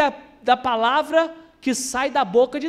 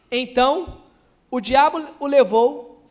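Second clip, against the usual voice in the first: declaimed Bible reading; scripture reading; 4 dB louder, slower than usual. Acted. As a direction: read the verse out with measured weight. Lê a passagem em voz alta. (leitura bíblica solene)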